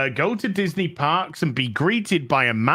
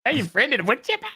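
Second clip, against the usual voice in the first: put-on Minnesota accent; 9 semitones higher, much faster than usual. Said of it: "I can't do a Wisconsin accent".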